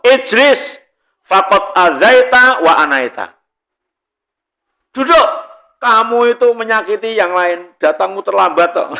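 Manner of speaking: tegas dan lebih tinggi; teguran Rasul. Retold or imitated. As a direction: tegur orang yang melangkahi jamaah. Rasul menegur orang terlambat. (Rasul menegur orang yang datang terlambat, tegas)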